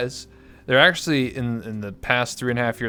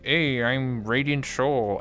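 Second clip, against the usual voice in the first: Radiant Soul; much slower than usual. Retold or imitated. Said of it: "then she was speaking".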